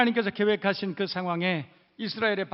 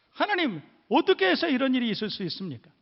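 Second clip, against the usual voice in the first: mild mock grievance, voice raised; complaining Israelite; 3 semitones higher, 5 dB louder than usual. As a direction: plead with God like a wronged believer. Voicing Israelites' complaint to God.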